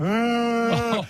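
imitated cry. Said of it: "So she starts crying, like".

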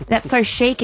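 put-on 1 gushing girls. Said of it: "They go".

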